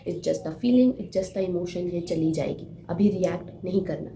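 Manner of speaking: slow, measured reassurance to oneself; calming self-talk. Shown as a demonstration. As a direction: talk yourself down, phrase by phrase. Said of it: "अपने आप को ये बोलना है".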